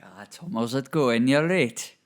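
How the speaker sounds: put-on a light Geordie accent. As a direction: greet him in Geordie. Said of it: "I was doing a Geordie accent as well".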